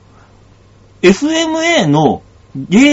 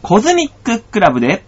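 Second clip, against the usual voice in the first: DJ song intro; much slower than usual. Acted.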